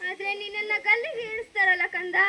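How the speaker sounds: weeping through the words; a mother's tearful lament; crying mother. Acted. Mother to her jailed son, speaking through tears. Mother weeps over the gallows.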